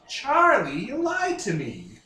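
lightly squawky, slow parrot-like accusation; a hint of a parrot repeating words; Danny DeVito parrot voice. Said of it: "parrot voice possible".

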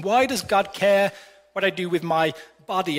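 "body" at the end weighted and let fall; stress on BODY. Shown as a demonstration. Preacher shows the congregation the question stressing body. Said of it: "the influence is on the body".

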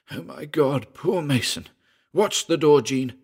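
tight, strangled and high. A narrator's reading. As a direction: choke it out in fear. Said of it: "His voice was strangled".

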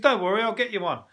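a chirpy tipsy stranger; drunk bloke voice. Retold or imitated. Voicing drunk cricket fan.

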